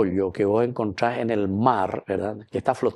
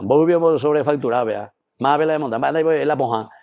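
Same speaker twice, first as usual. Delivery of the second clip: mock rant; 2 semitones higher than usual.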